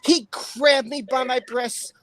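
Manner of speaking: slow, lightly put-on witness voice; measured, mock-dramatic testimony; Amber. Streamer rereading the statement, lightly impersonated. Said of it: "doing it in an Amber voice".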